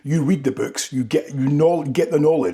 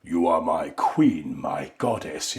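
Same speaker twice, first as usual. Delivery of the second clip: deep, slow murmured devotion; seductive whisper; 8 semitones lower, slower than usual. Retold or imitated. Rhysand whispering to Feyre, deep slow seduction. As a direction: lean in and murmur low and slow. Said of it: "Whispering in her ear".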